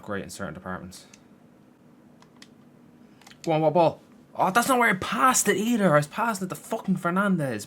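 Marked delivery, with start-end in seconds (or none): 3.4-7.7 much higher, loud outraged yelling at a misplaced pass; furious shout. Real, not acted. Gamer yelling that the pass went astray. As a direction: shout that the game betrayed him. Pass goes to wrong player.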